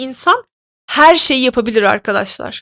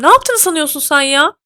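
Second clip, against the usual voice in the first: retold shout; 5 semitones higher than usual. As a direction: call after him, half-shouting. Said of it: "bağırdım böyle arkasında". (arkasından bağırarak, yarı öfkeli)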